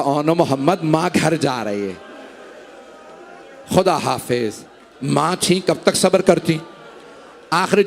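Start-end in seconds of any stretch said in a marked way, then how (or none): 0.0-4.5 soft voice. A narrator's reading. Mother leaving her son's grave, saying goodbye softly. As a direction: lower and softer, a hushed farewell. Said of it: "एक धीमे आवाज में कहा".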